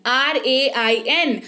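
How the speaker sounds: slow, letter by letter spelling; each letter of पी एल ए आई एन said slowly and separately. Shown as a demonstration. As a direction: spell it out like on a board. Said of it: "spelling the word out".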